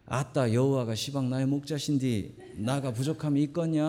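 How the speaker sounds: lightly voiced Jeolla accent, playful; a light touch of Jeolla country talk; Jeolla dialect. Shown as a demonstration. Pastor lightly imitating Jeolla dialect for the congregation, playful. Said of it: "이 전라도 버전은 이렇대요".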